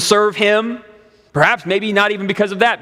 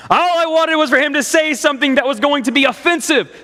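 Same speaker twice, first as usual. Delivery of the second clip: laughing; 5 semitones higher than usual. Real, not acted. Laughing at her own irony.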